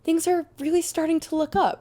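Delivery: high-pitched melodramatic quote; overdramatic mock lament. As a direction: mimic a teen being far too dramatic. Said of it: "there's no need to be that dramatic".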